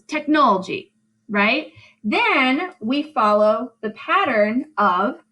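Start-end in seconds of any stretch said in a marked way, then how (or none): 0.0-0.9 "technology" run together as tech-NOL-gy, higher pitched; three syllables. Shown as a demonstration. Teacher fitting the word to meter, three-syllable "technology". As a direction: drop the second o sound in "technology". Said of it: "where we only have three syllables".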